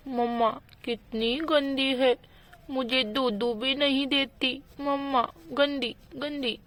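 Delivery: put-on a hungry little child pleading; toddler voice. Toddler sulking about no milk.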